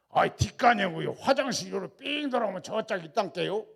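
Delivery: loud Jeolla directions; Jeolla dialect. Retold or imitated. Landowner giving toilet directions, loud Jeolla dialect. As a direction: point the way in broad Jeolla speech. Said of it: "전라도 말에 솔찬히 잘합니다".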